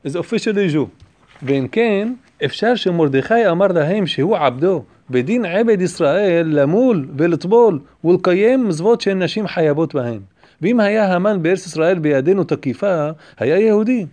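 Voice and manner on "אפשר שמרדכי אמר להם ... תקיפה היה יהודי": quick, louder chanted reading of the commentary; text recitation. Acted. Rabbi reading the commentary to his class, fast singsong recitation. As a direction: rattle the Hebrew text off like a study-hall chant.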